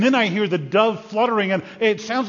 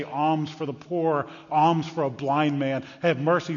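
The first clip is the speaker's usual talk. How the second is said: slow beggar's plea. Acted. Blind beggar calling for alms.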